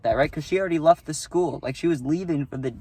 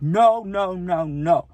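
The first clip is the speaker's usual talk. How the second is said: loud no; 4 semitones higher, much slower than usual. Retold or imitated. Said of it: "I went loud as fuck".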